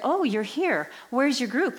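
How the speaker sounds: retold surprise, lifted into a question; mild surprise. Priest finding the woman in the locked church, mild surprise.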